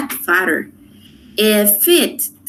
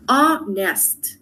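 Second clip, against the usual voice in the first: "Honest" split into two drawn-out beats, HON-EST; "Honest" in two separated syllables, falling at the end. Shown as a demonstration. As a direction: say "Honest" slowly, one syllable at a time. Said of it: "dos sílabas".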